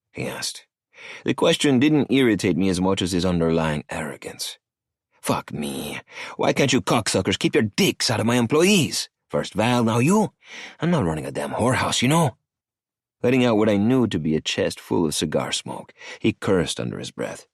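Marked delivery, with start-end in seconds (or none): 5.2-12.4 a lightly voiced cocky older man, pitched up; arrogant cartel boss. Cartel boss Emilio needling Maddie on the phone, sneering. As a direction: sneer the question at him.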